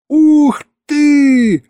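high, loud burst of joy; delighted wow. Acted. Husband realising he'll be a father, loud high wow. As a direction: it finally lands, shout it. Husband finally grasps the news.

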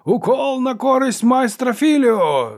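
high, loud, slow announcer's call; bawling referee. Acted. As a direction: bawl it out to the whole arena. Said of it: "заволав арбітр".

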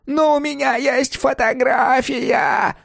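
very slow, high, wailing accusation; old woman howling at Hoyt, drawn-out wail. Acted. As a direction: howl his name out. Continues howling.

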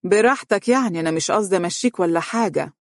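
a touch of forced sweetness; polite on the surface, cold beneath; fake smile. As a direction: stepmother falsely sweet to stepson. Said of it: "قالت بابتسامة صفراء".

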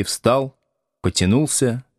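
ordinary talk, nothing marked

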